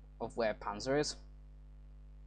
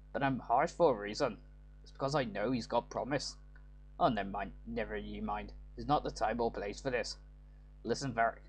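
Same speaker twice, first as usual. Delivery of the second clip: light Scottish-Irish lilt, read like a game line; a hint of a Scottish brogue, half Irish; Scottish accent. Father voicing his harsh streak to the lad, light Scottish accent. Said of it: "doing a Scottish accent or an Irish".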